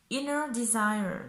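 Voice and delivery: slow English words with a French accent. Real, not acted. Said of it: "J'adore mon accent anglais".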